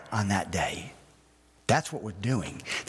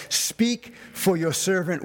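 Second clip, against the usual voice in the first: lightly voiced Samuel; 6 semitones higher, slower than usual. Preacher acts Samuel's reply.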